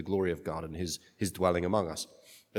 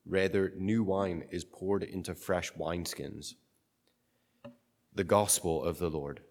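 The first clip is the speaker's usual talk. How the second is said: solemn Gospel reading; cathedral echo. Acted. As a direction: read it like a liturgy.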